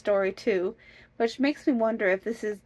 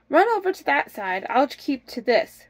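urgent directing; 5 semitones higher, 4 dB louder than usual. Acted. Wife directing the chase.

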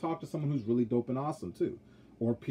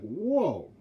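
taken aback; 6 semitones higher than usual. Retold or imitated. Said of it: "I'm like".

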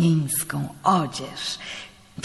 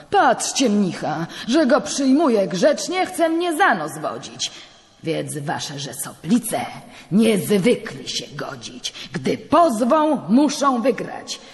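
higher, louder wounded pride; the judge fuming at the priest's meddling; indignant rant; 5 semitones higher, 4 dB louder than usual. Acted. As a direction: rail at the monk who mocks you. Judge rages at the monk.

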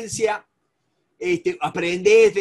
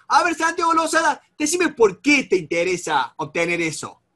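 confronting; 2 semitones higher than usual. Shown as a demonstration. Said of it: "Yo quiero ponerlo más nervioso".

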